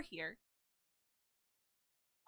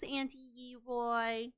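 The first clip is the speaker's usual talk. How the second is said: voicing the dog; 4 dB quieter, much slower than usual. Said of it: "you're gonna say".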